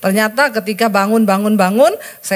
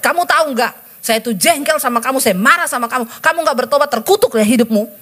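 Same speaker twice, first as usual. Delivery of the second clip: venting anger; 3 semitones higher than usual. Retold or imitated. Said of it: "Saya curhat".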